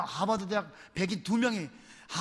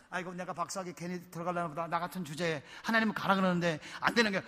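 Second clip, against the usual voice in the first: discouraged self-talk; 5 dB quieter than usual. Retold or imitated. Student lying sick regretting his doctorate, discouraged muttering. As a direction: grumble quietly to yourself in acted dejection.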